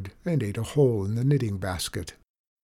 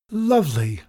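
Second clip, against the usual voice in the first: delighted; 5 semitones higher, 5 dB louder than usual. A narrator's reading. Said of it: "she said".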